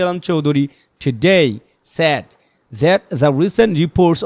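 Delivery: slow, clear news reading; reading aloud. Shown as a demonstration. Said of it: "যেমন আমি একটা line পড়ে দিই এখানে". (জোরে জোরে স্পষ্ট করে খবর পড়া)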